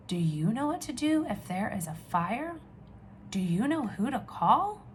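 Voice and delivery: lively storybook reading voice; animated read-aloud for little ones; reading to children. Acted. Reads picture book aloud.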